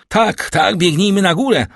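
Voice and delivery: high, loud and hurried; urgent reply. A narrator's reading. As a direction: urge him to run upstairs with you. Doctor urgently answers cry for help. (głośna, nagląca odpowiedź)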